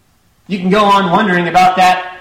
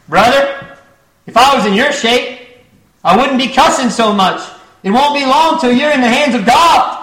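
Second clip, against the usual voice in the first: raised, urgent warning to a dying sinner; stern warning; 3 semitones higher than usual. Retold or imitated. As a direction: preach it hard, almost a shout. Preacher warning the dying drunkard.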